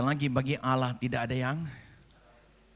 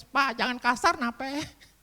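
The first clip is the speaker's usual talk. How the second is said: high-pitched, louder protest as the wife; mock protest; 11 semitones higher, 3 dB louder, slower than usual. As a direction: pipe up in exaggerated objection, pitched high. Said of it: "kamu langsung protes". (pura-pura protes dengan suara tinggi)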